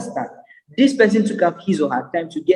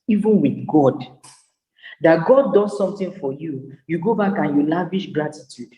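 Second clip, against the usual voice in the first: ordinary talk, nothing marked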